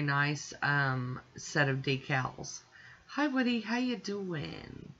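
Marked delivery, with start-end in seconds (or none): 3.1-4.9 pet talk. Real, not acted. Greeting pet mid-video.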